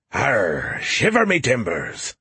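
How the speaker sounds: lightly voiced pirate, slow; a hint of a pirate growl. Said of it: "Skippy did a decent pirate impression".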